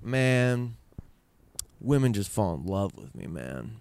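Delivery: slow, self-satisfied boast with the last word dropped very low; smug boast. Retold or imitated. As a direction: lightly imitate a smug dad bragging. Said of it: "but he said it more like".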